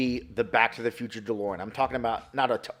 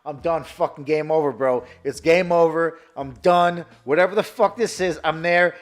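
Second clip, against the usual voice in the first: louder and higher, gushing; hyped fanboy; 5 semitones higher, 9 dB louder than usual. Retold or imitated. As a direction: rave like you're already sold. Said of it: "I'm like".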